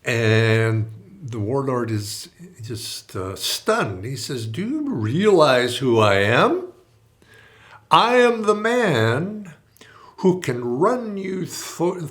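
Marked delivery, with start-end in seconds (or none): 4.5-6.7 louder, slow menacing demand; threatening warlord. Retold or imitated. Warlord threatening the calm priest, loud and slow. 7.9-12.1 slow, high hissing threat; menacing whisper. Retold or imitated. Warlord whispering his threat to the priest.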